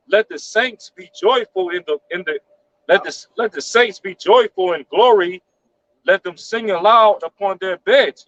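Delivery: slow, measured Psalm reading; scripture reading. Acted. Reading Psalm one forty-nine aloud, slow scripture reading. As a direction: read the verse out slowly and deliberately.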